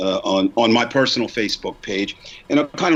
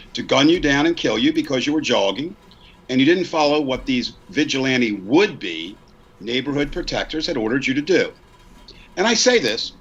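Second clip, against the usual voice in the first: measured read-aloud of a prepared statement; formal speech; 2 semitones higher than usual. Real, not acted. Reading own post about privilege on air, formal measured delivery. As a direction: deliver it as oratory, pausing between phrases.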